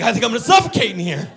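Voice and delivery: high, loud, fast fretting; hammed-up alarm, rushed and high; mock panic. Someone trapped in a duvet, mock panic.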